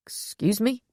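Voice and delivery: a startled, rising question; surprised. A narrator's reading. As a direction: caught off guard. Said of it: "taking a surprised step back".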